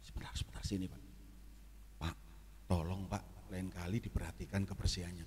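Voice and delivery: teguran rendah dan lirih; pelan-pelan. Retold or imitated. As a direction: tegur diam-diam, suara ditahan. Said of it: "Saya pelan-pelan". (teguran pelan kepada manajer)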